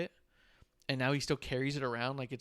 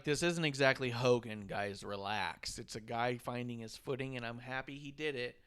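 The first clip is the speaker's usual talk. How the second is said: calm reaction; 4 semitones lower than usual. Retold or imitated. Acts out own calm reaction.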